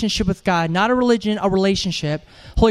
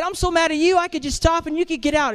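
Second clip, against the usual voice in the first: mock angry girlfriend; 7 semitones higher than usual. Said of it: "She said".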